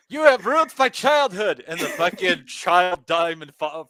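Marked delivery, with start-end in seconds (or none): 0.1-1.6 high mock indignation; a high, hurt activist voice; Greta impression. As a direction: play the wronged teen activist. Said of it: "the Swedish girl says".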